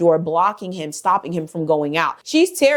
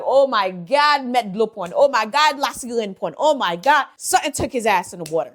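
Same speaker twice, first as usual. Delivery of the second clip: mock panicked gasps of Oh my God, pitched up; panicked onlookers; 3 semitones higher than usual. Villagers panicking as Michael vanishes into the river. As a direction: play the frightened crowd at the riverbank.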